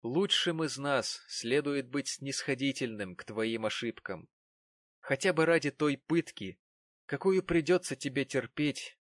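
slow solemn preaching tone; solemn address. A narrator's reading. Narrator addressing the wronged woman, slow and solemn. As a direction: intone it like a blessing.

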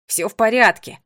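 loud call up to friends; projected, hearty shout; shouted reassurance. A narrator's reading. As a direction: call out that you're fine. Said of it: "крикнул он".

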